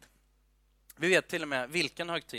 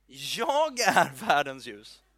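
slow, weighty and a bit louder; solemn Jesus proclamation; 2 semitones lower, 4 dB louder, much slower than usual. Acted. Jesus in the half-dark temple proclaiming to the crowd, slow and solemn. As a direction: announce it like a revelation in the dark temple.

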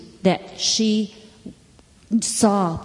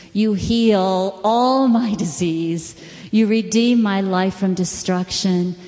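reciting scripture. Acted. Preacher recites Psalm 103 to the congregation, prayerful recitation. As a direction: pray the psalm aloud as scripture. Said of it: "I'm gonna have to say the whole thing".

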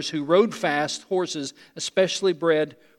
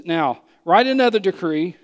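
with an attitude; 5 dB louder than usual. Acted. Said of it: "I think with an attitude".

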